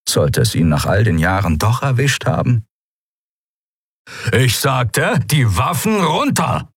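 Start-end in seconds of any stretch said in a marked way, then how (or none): 4.3-6.7 insistent, higher-pitched repeated order; energetic command. A narrator's reading. Commander to defiant pirates, energetic insistent command. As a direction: drive the order home, drawing it out. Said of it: "klang ziemlich energisch".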